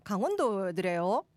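lilting Gangwon-dialect question; mock Gangwon dialect. Host guessing a listener's dialect, mock Gangwon accent. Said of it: "어디 사투리예요?".

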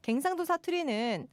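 steadily climbing Gyeongsang intonation, ending high; Gyeongsang dialect. Pretend. Host reading a listener's tease, rising Gyeongsang accent. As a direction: keep raising the pitch in mock Gyeongsang style. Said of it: "경상도 사투리로 여러분 자꾸 이렇게 놀리시는데".

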